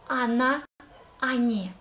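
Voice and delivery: Она, они with the first "о" said as "а": "ана, ани"; a not o. Shown as a demonstration. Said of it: "There is no or".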